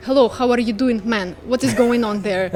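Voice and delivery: exaggerated thick Ukrainian accent; heavy Ukrainian accent. Shown as a demonstration. Showing learners how not to sound, heavy Ukrainian accent. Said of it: "just do not sound like".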